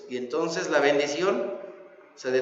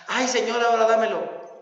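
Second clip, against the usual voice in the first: whiny plea; 5 semitones higher than usual. Retold or imitated. Sinner whines to God.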